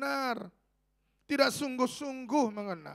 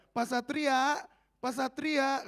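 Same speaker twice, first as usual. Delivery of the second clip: mild raised call; imitated calling out; 4 semitones higher, 4 dB louder, much slower than usual. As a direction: call a pastor from another aisle, lightly acted. (tiruan panggilan agak nyaring)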